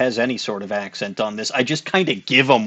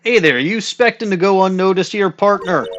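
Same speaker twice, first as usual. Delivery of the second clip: lightly voiced southern cowboy; a hint of a Western sheriff drawl; 4 semitones higher than usual. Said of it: "I can't really do a southern accent very well".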